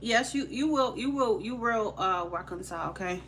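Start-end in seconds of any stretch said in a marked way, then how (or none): none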